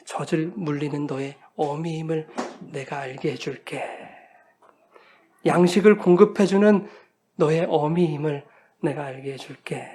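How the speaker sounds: soft, low-pitched acted reassurance; mother's tender answer. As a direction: soothe your crying baby, hushed and low. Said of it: "응답을 합니다".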